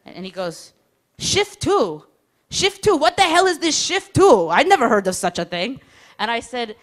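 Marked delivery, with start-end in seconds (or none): 1.2-5.8 high, loud, incredulous repeats; outraged mock-parent confusion; baffled mother-hen soldier. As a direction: sputter in disbelief like a fussy mom. Soldier baffled by email address.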